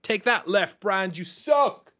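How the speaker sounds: high, slow playground jeer; mock taunt. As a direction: jeer at them in a squeaky voice. Mock taunt, repeated joke.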